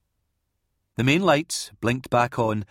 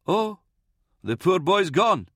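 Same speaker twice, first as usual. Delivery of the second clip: put-on high-pitched old man's lament; old priest, pitying; 10 semitones higher than usual. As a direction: lament over the wounded boy. Old priest mourns over wounded boy.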